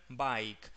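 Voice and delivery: "bike" with a clear A-to-I glide; AI diphthong. Shown as a demonstration. Teacher gives an example, "bike" with ai diphthong. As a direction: open "bike" on A, gliding to I. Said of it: "este sonido con la I".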